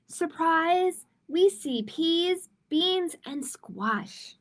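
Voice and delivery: put-on spring the surprise on the kids; excited reveal. Big reveal in kids' story.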